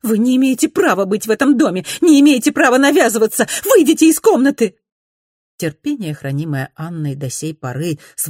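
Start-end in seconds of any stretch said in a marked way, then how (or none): 0.0-4.8 high, loud, fast command; angry lady; furious order. A narrator's reading. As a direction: drive her out. Ordering her out.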